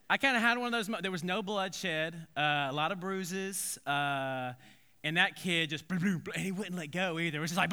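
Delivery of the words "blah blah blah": bouncing blubbering syllables; imitated tumbling noise. Preacher showing kid dragged by the dog, bouncing burble. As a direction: burble out the thuds of a body bouncing.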